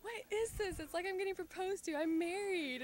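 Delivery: high-pitched retelling of mom's reaction; imitating mom. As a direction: act out mom's protest, pitched well up. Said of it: "and she was like".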